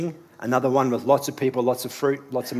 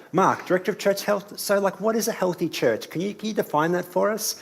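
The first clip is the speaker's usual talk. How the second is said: high, eager asking voice; curious questioner; 7 semitones higher than usual. Retold or imitated. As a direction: ask it like a keen newcomer. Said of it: "this is the first question I get".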